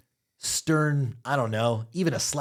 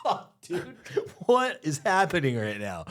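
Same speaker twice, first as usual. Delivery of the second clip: laughing shock; 4 semitones higher, slower than usual. Retold or imitated. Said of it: "I'm like".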